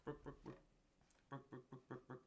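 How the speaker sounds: high clucking hen going book book book; chicken clucking. Acted. Chicken walking down street.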